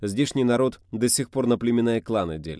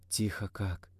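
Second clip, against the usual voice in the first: murmuring; 6 dB quieter, slower than usual. Acted. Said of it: "пробормотала она".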